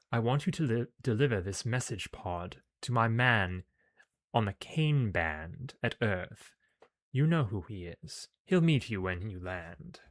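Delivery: British villainess giving orders; British accent. Acted. Commander sends her agent with a message, British accent. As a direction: instruct deliberately in a British accent. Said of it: "I gave her a British accent".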